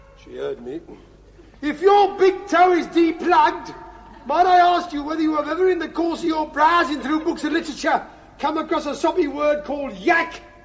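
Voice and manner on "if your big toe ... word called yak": raised, very high-pitched shout. Calling a question up to someone in the bath: raised voice. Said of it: "I'm afraid I'll have to raise my voice".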